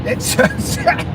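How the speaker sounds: "so" breaking into a breathy laugh. Real, not acted. Streamer repeats a chat joke, laughing through it. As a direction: laugh through "It's so sad".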